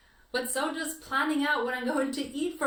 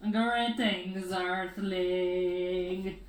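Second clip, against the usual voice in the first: alien voice; 5 semitones lower, much slower than usual. Pretend. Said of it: "I am an alien".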